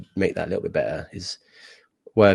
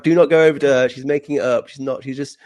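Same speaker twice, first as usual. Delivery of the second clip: loud warning; 6 semitones higher, 8 dB louder than usual. Retold or imitated. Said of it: "I'm like".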